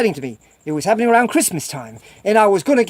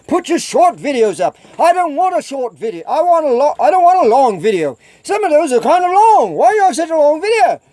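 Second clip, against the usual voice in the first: mock complaint; 4 semitones higher than usual. Mimicking viewers' complaints about video length.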